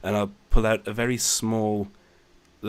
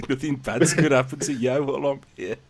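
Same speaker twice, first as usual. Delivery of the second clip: put-on Black Country accent; 5 semitones higher, 6 dB louder than usual. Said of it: "in the Black Country accent".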